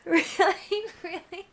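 high, loud, squealing through laughter; giggling, begging him to stop tickling; being tickled. Real, not acted. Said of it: "I'm too ticklish".

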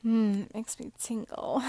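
ordinary talk, nothing marked

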